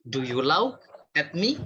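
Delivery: slow question with laugh misread as "lauk"; misread word. Shown as a demonstration. Teacher testing whether people understand, "lauk" mispronounced for laugh. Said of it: "tapi kita bacanya lauk".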